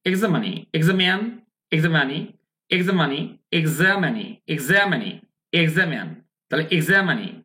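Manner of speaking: each word repeated separately, American "za-men" and "za-ma-nee"; pronunciation drill. Shown as a demonstration. Teacher recapping for learners, pronunciation drill. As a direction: drill এক্সামানি over and over, falling endings. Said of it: "তাহলে কি হলো?".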